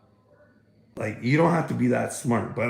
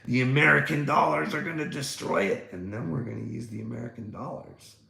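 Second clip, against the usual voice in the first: a put-on voice for the greedy financiers, trailing into a laugh; mock BlackRock. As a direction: ham up the greedy investor scheming. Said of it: "there's BlackRock going".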